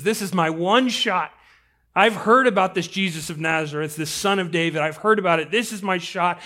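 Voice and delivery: energized, mildly urgent delivery; pressing, building excitement; urgent resolve. Acted. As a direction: seize your one chance. Blind man seizing his chance.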